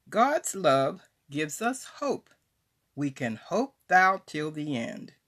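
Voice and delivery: emphatic devotional recitation, phrases lifted and set apart by pauses; poem recitation. Acted. Author shares her poem on God's love, emphatic recitation. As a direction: declaim the poem with swooping, deliberate emphasis. Reads second poem aloud.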